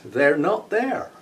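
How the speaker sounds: laughing, slow repeat. Real, not acted. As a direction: savour it through a laugh.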